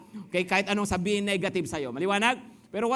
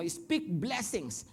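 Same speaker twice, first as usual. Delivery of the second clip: slow soft emphasis; 6 dB quieter, much slower than usual. Shown as a demonstration. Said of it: "teaching the key phrase".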